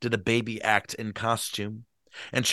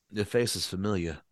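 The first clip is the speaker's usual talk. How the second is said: polite remark; 3 semitones lower, 6 dB quieter than usual. Acted. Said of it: "he said politely".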